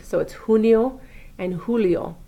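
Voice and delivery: "junio" and "julio" with a breathy H at the start; the J of "junio" and "julio" breathed like an H; Spanish J as H. Shown as a demonstration. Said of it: "we pronounce the J sound as an H sound".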